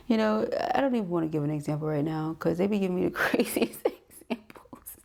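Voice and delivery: whispered through giggles; giggly whisper. Real, not acted. Reader to viewers, a giggling whispered aside. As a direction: let it slip out in a laughing whisper.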